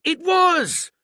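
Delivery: very high, loud burst; quite excited. A narrator's reading. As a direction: leap on the name with excitement. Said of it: "now quite excited".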